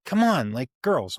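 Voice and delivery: retold dad losing patience, mildly; frustrated. Dad to his girls on a bad day, frustrated.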